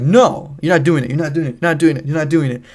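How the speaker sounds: imitated firm, repeated no; insistent refusal. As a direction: mimic a sister putting her foot down, high on the first no. Sister refusing his plan, insistent repetition.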